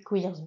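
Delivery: queers prononcé avec un s final, à l'anglaise. Shown as a demonstration. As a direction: dis queers en sonnant le s final, accent anglais. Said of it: "J'aime bien dire queers au lieu de queer". (queers avec le s final prononcé)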